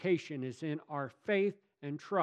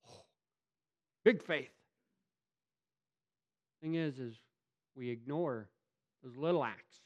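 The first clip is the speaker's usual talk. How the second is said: usual speaking voice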